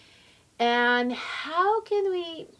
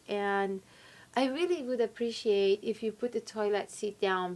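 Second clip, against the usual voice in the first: calm, appropriate request; 3 dB quieter than usual. Acted. Lady asking partner about toilet seat, calm and sincere. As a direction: state the frustration without any attack. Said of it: "Can you say".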